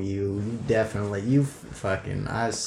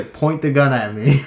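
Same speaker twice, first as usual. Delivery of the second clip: commanding; 4 semitones higher, 5 dB louder than usual. Acted. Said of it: "I'm gonna say".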